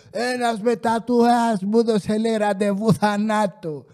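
slow, put-on whining voice of a customer; whiny complainer. Customer complaining to head office, mock whiny voice. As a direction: act out a customer telling on the cashier.

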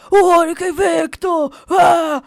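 loud, slow, shouted cheer; mock football cheer. Husband celebrating Botafogo's game, loud and slow. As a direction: bellow like a fan celebrating.

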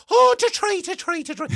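very high, loud caricature voice; shrill, over-the-top singsong put-on voice; mock group impression. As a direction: belt it out as a high-pitched caricature.

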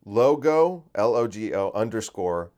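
slow, careful spelling of the handle; dictating a username slowly. Shown as a demonstration. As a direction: spell it letter by letter. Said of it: "That's his at".

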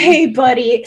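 mildly patronizing hey buddy, echoing; condescending hey buddy. Shown as a demonstration. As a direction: say it a bit down at them. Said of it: "kind of talking down to".

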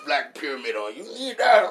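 high, loud hype-man pitch; hyped club voice. Retold or imitated. Hyping a friend before the club, high loud voice. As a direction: pump him up like a club promoter. Acting out a boastful club talker.

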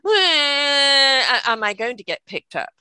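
loud cry then a whimpering question; a baby testing for attention; imitating a fake cry; mock baby wail. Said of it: "there's the".

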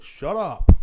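high, very loud bark-back; top-of-lungs yell. Retold or imitated. Man walking by shouting at dogs, high loud yell. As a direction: yell over barking dogs. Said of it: "screaming at the top of my lungs".

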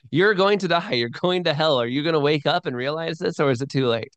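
imitating a stern old preacher warning condemned men. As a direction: hammer it home like a fire-and-brimstone preacher. Cotton Mather preaching to pirates.

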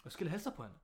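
usual speaking voice

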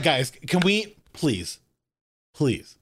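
mock plea, dropping low on please; imitated earnest pleading. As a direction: beg half-jokingly, pausing before each please. Acted pleading of actor at movies.

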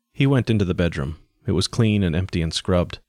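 measured, even audiobook reading; story narration. A narrator's reading. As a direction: narrate the story in evenly paced phrases. Reads the story aloud.

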